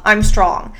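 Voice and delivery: a confident self-affirmation; firm affirmation. Shown as a demonstration. Podcast host coaching listeners, firm and sure. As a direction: say it like you mean it, steady and sure. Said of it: "I want you to say".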